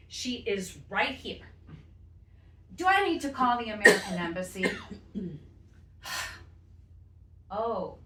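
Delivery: a lightly voiced grandmother arguing with officials, impatient; indignant grandmother. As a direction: push the clerk, put-upon and fed up. Grandmother argues at border office.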